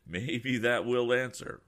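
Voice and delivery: loud, slow grim retort with a smile. Acted. Tom retorting to the passenger, grim and slow. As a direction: answer grimly through a smile. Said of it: "retorted Tom, smiling grimly".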